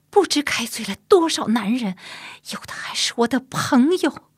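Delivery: restrained at first, rising high and loud; aggrieved confession. Acted. Woman showing her chastity mark, aggrieved and increasingly emphatic. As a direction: let hurt build into indignant insistence.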